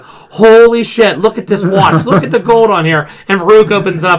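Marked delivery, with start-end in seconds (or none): 0.0-3.1 imitating a stunned wrestler; mock amazed Mark Henry. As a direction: act out gaping at the gold. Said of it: "Mark Henry keeps going".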